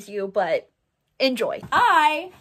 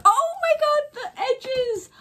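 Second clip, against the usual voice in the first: very high, loud squeal of delight; 14 semitones higher, 4 dB louder than usual. Real, not acted. Vlogger discovering the decorated page edges, high squeal. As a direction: squeal at the sight.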